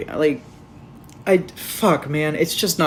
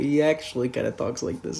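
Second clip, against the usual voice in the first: Dead Man voice; 4 semitones lower, 5 dB quieter than usual. Shown as a demonstration.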